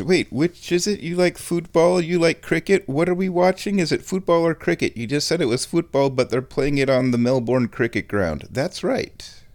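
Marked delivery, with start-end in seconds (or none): 0.0-8.5 a touch higher, puzzled questioning voice; confused American listener. Retold or imitated. American listener puzzled by cricket ground, mildly confused. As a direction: play a baffled American friend. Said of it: "some of my American listeners might be confused".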